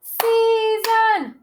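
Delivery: "Season" chanted high in two held beats; high, slow, evenly split "Season"; syllable by syllable. Shown as a demonstration. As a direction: stretch "Season" into SEA-SON to count it. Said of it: "Two syllables".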